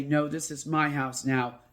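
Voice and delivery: loud, slow "you get out"; firm command. Shown as a demonstration. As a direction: stand your ground and order it out. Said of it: "turn right back around and say".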